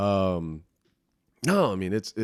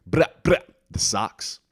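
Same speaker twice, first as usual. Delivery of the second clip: exasperated bruh; 3 semitones higher, 5 dB louder than usual. Real, not acted. Exasperated at the Sox.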